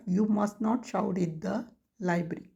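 each word spaced out for writing; slow dictation. Shown as a demonstration. Teacher dictating to students, very slow word by word.

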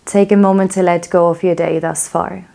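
calm, even guiding voice with long pauses; yoga teacher settling the class into stillness; guided relaxation. Real, not acted. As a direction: ease them into letting go, unhurried.

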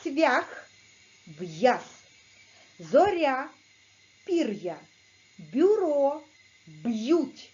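Цвях, в'яз, Зоря, пір'я, Бюро, б'ють each spoken apart and crisply; teacher models word pairs for copying; clear model pronunciation. Shown as a demonstration. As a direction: model each pair crisply with a pause between. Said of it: "Чітко вимовляйте звуки".

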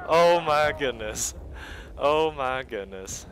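slow, stretched-out exclamation; drawn-out dismay. Real, not acted. Gamer recovering after a chaotic death, drawn-out dismay. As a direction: draw each word out, easing down. Reaction after dying in chaos.

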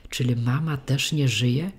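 plain reading voice

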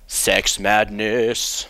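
very slow, drawn out announcer; dramatic title announcer. Shown as a demonstration. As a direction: boom out the title slowly. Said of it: "featuring the nineteen thirty-eight movie".

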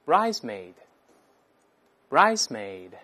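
bridesmaid read very slowly and carefully, syllable by syllable; loud model reading. Shown as a demonstration. Teacher models the word for the class, slow and clear. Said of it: "我们先大声来一遍".

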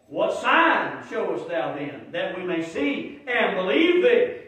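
slow, loud scornful demand; slow booming scorn at the preacher; mock arrogant challenge. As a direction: demand it slowly and loudly, sneering. Mocking the arrogant crowd.

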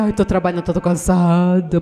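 tired churchgoer making excuses; mock tired whine. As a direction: sigh out the excuse like a worn-out worker.

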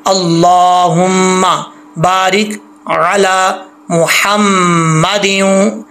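slow Quranic recitation of मुहम्मदिन with a nasal doubled म; careful Arabic recitation. Shown as a demonstration. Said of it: "इसको हल्क से पढ़ेंगे और मीम जो है वो गुन्ने के साथ शद है".

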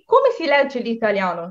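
very slow and carefully spaced Italian; slow teaching read of Italian. Shown as a demonstration. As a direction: read it out slowly for learners. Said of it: "এখন আসি".

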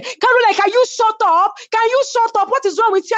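high, urgent plea to shut up; pleading to stop. Retold or imitated. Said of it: "Miriam kept saying".

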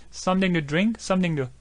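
"Something to drink" with the ng dropped, "samtin-du"; reduced "something to". Shown as a demonstration. Teacher showing how "something to" blurs together. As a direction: run "something to" together, N and G swallowed. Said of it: "자세히 들으면 이렇게 N 발음을 안 하는 것처럼".

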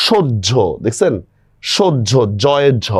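সহ্য drawn out slowly so the doubled জ্ঝ is heard; slow pronunciation demo. Shown as a demonstration. Teacher showing students how হ্য in সহ্য sounds, slowly.

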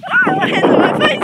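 high, frightened cry; hiding from real fear; scared whimper. Real, not acted. Kid scared on swing chair.

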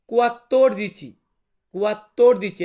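loud model of কুয়াত্তর দিচি; Italian word demo. Shown as a demonstration. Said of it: "চোদ্দকে আমরা Italian ভাষাতে বলবো".

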